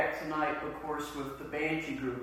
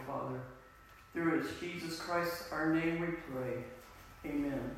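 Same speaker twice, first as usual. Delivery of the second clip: prayer. Acted. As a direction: pray it out, steady and reverent. Pastor leads opening prayer.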